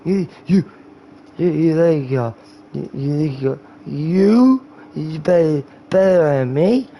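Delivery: stumbling, repetitive mock-drunk slur; drunk guy. Drunk guy squaring up to his friend, mock-slurred. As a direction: play drunk, stretching and restarting words. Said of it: "that's talking to a drunk guy".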